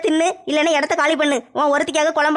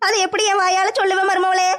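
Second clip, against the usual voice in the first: fake crying; 4 semitones higher than usual. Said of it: "அதுக்கு ஏன் அழுவுறீங்க?".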